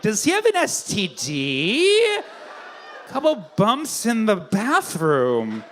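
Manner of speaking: slow, puzzled repeat of the phrase; slow confused echo. Retold or imitated. Comic imitating baffled audience members, slow and puzzled. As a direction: drag out "Couple bumps in the bathroom" like someone who doesn't get it. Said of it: "some of you are like".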